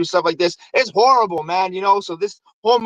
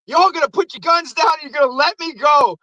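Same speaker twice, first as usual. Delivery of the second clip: higher-pitched, worked-up orders; mock commanding; 7 semitones higher than usual. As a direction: imitate a cornered man making demands. Mailman orders police about.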